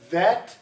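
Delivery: "That." said loud, tongue between the teeth. Shown as a demonstration. Teacher drilling "That." loudly for students to repeat. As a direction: model "That." with a clear th. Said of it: "do what I do".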